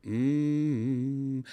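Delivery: a high, gentle hummed mm-hmm. Shown as a demonstration. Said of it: "Just go".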